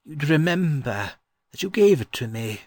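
put-on old gentleman's voice with a smile; smiling answer. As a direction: answer fondly through a smile.

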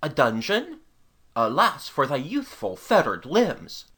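slow, low-voiced chivalrous condolence; polite sympathy. A narrator's reading. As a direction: offer grave, courtly sympathy as a knight. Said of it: "with polite sympathy".

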